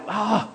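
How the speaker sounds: a startled mother's cry, played mildly; mild mock shriek of surprise; mock yelp of alarm. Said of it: "you hear your mom yell".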